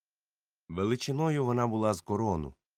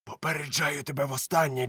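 warning; 5 semitones higher than usual. Acted. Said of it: "крикнув він".

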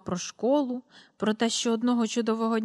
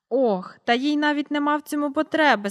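sighing whisper; 5 semitones higher, 4 dB louder than usual. A narrator's reading. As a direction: let the line out on a breath, almost whispered. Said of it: "зітхнувши". (зітхаючи пошепки)

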